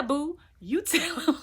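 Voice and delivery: cheering him on through laughter; giggling boo, you tell him; laughing cheer. Real, not acted. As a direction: laugh while egging him on.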